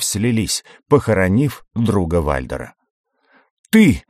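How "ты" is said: sharp high furious shout. Acted. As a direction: yell it out in rage. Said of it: "закричал Вальдер".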